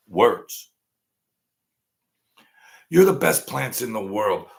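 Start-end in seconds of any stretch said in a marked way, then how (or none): 2.9-4.5 a hint of cooing praise; lightly sweet, encouraging; mild plant praise. Streamer mildly voicing praise to the plants.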